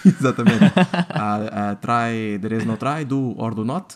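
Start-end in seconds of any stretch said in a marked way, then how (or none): 1.1-4.0 Yoda voice. Retold or imitated. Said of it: "quotes do Yoda".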